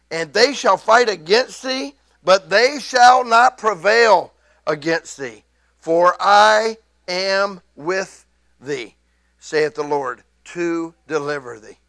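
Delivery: loud, slow, fervent scripture; excited preaching. Real, not acted. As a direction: let the verse carry you away. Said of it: "I just get a little bit excited about that".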